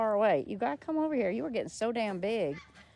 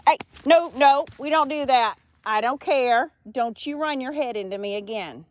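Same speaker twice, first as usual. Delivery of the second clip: firm scolding; 6 dB louder than usual. Real, not acted. Scolding pushy hen.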